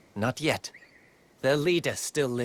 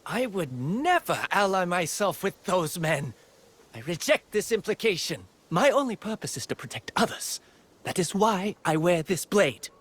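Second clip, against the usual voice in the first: raised pitch, indignant self-defense; indignant denial; 5 semitones higher than usual. Acted. Swordswoman defending herself against an accusation, indignant. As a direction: reject the accusation, voice climbing higher.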